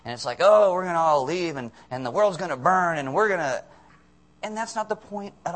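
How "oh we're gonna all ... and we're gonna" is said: loud, mocking alarm; hammed-up end-of-the-world excitement; mock rapture hype. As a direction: parody an overexcited doomsayer. Mocking rapture book readers' excitement.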